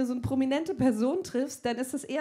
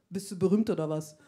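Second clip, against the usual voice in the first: grobe Frage; 6 semitones lower than usual. Retold or imitated. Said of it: "Ich so".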